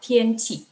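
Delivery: "tian" level, "qi" falling; first then fourth tone. Shown as a demonstration. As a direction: keep "tian" even and drop "qi". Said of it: "Tian nada satu dengan qi nada empat".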